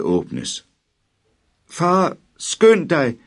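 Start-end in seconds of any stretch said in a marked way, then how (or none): 1.7-3.2 very high, loud, slow wail; howling plea. A narrator's reading. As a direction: howl for dad to hurry. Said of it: "hylede drengen". (drengen hyler højt og langsomt efter sin far)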